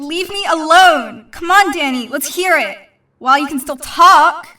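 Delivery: angry threats. Acted. Kitty threatens the boy who insulted her, loud and angry. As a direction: threaten him through the fight. Kitty keeps fighting Danny.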